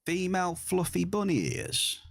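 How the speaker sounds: high, incredulous repeat; taken aback. Real, not acted. Streamer reading back a viewer's odd request, taken aback. Startled repeat of chat message.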